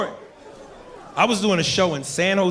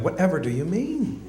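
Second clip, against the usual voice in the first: white person; 4 dB quieter than usual. Acted. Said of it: "some of the white people are like".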